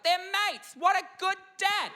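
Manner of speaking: high-pitched, delighted gushing; gushing admiration. Acted. Onlooker admiring a dad with his kid, gushing high. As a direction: marvel at it in a high voice.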